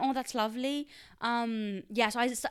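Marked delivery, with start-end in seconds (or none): 0.0-0.9 lightly British turn of phrase; a touch of British lilt; British accent. Shown as a demonstration. Quoting a pet phrase picked up from London cousins, light British accent. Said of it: "lovely all the time".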